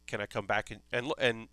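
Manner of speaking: hushed request. Retold or imitated. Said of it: "he's like".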